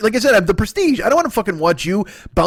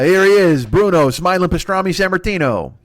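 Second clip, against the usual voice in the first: ring announcer. Pretend. Wrestling ring announcer bit.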